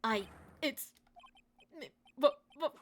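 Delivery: high, loud startled shout of the name; shocked cry. Acted. Detective shocked to see the prosecutor, crying out.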